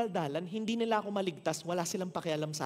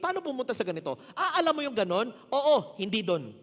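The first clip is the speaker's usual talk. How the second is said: laughing, higher mock voice of an unhelpful stranger; vague direction-giver; 5 semitones higher, 6 dB louder than usual. Preacher mimics unhelpful strangers asking directions, laughing. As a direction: play a clueless local giving directions, laughing. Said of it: "Parang ganon magsalita".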